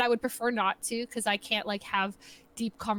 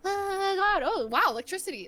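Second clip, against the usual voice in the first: feigned wonder; 7 semitones higher than usual. Acted. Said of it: "I think about, like, completely irrelevant things".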